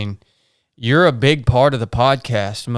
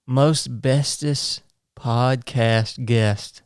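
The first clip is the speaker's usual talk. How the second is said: mock flattery; 3 semitones lower, 5 dB quieter, much slower than usual. Mock-flattering intro of his wife.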